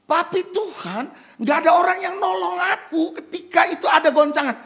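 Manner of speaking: hammed-up loud pleading; mock whining excuse. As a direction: complain to Jesus, overdone. Mimics the sick man.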